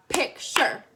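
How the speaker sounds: picture in two slow, separate beats; over-enunciate both halves of picture; counted-out syllables. Shown as a demonstration. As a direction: split picture into PIC, TURE. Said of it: "just count syllables".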